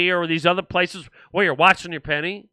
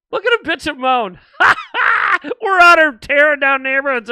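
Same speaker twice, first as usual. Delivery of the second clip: high, loud mock cackling; mocking laughter; 8 semitones higher, 6 dB louder than usual. Liberals laughing at the listeners, mocking laughter. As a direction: jeer through a big hammed-up laugh. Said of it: "They're laughing. They're laughing at you going".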